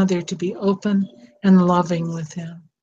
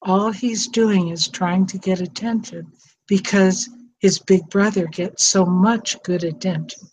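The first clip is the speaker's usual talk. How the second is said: gentle. Retold or imitated. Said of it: "really gently".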